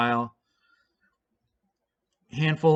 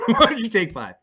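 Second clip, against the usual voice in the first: repeating the line through a laugh; 7 semitones higher, 4 dB louder than usual. Retold or imitated. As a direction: chuckle while quoting.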